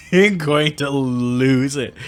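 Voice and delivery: high, laughing so hard it cries; helpless teary laughter, almost shouting; laughing hysterically. Real, not acted. Breaks down laughing at lost take.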